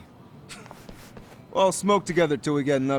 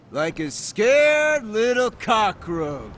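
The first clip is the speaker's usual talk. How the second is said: mocking sneer; 5 semitones higher, slower than usual. Mocking the hiding enemy.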